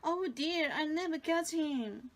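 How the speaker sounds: high, loud dismay; exclaiming. Acted. Alice despairing as the rabbit escapes, high and loud. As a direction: cry it out in a rush. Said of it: "Alice popped".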